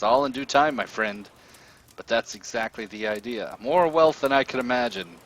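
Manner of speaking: gloating villain. Acted. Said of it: "he holds up a finger and he says".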